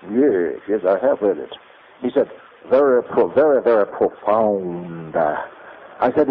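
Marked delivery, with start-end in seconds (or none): 0.1-5.2 professor's reply. Retold or imitated. Professor praising Tillich article.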